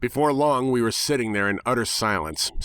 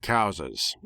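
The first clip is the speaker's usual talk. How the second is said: deeper tone; 4 semitones lower than usual. Acted. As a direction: drop the voice for a grave Cowses. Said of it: "I repeated in a deeper tone".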